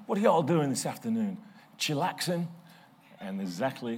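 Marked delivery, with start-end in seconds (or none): 0.1-2.5 quoting saxophonist. Retold or imitated. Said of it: "he suddenly said to the crowd".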